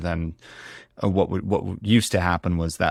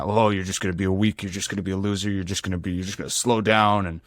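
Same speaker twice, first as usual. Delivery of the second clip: inner critic voice. Retold or imitated. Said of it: "narrative that I'd given myself".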